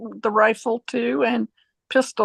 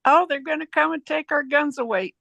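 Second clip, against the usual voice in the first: mocking paranoid gun owner; 6 semitones higher than usual. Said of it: "these people that go".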